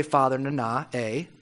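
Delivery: "Father Nana" muttered low and soft; droning "Father Nana" as if for the hundredth time; tired, deflated litany; weary mock repetition. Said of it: "How many times do you have to say".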